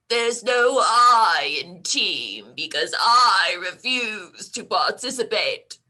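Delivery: put-on grouch it out like an old man; grumpy old man. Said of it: "the accent is grumpy old man".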